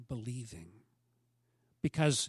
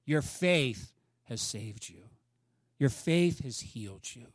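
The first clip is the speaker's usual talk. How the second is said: gentle Jesus; 4 semitones lower than usual. Retold or imitated.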